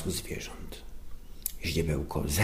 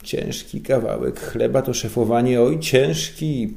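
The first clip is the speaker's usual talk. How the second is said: complaining boss; 4 semitones higher, 6 dB louder than usual. A narrator's reading. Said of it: "pożalił się Żbik".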